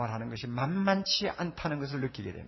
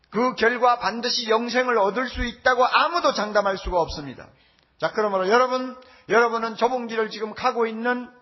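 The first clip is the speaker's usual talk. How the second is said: louder, emphatic pulpit delivery; forceful preaching; 6 semitones higher, 6 dB louder than usual. Real, not acted. Preacher warning the congregation about the narrow path, forceful preaching. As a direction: preach it with raised voice.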